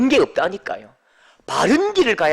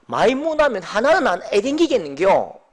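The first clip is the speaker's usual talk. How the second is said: level, relaxed Busan dialect line; preacher restating the Busan dialect line calmly; 2 semitones higher than usual. Retold or imitated. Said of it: "부산 사투리로".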